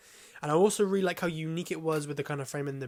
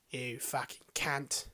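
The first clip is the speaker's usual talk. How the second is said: slow, drawn-out Cockney attempt; badly faked Cockney geezer; attempted Cockney accent; 4 dB quieter, much slower than usual. Shown as a demonstration. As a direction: have another halting go at Cockney. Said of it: "Why can't I do a Cockney?".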